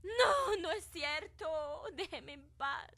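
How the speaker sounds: crying plea. Acted. Girl crying at ghost.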